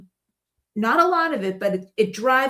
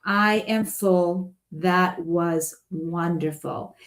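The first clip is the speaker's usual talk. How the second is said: satisfied; 5 semitones lower, much slower than usual. Shown as a demonstration. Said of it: "a big sigh".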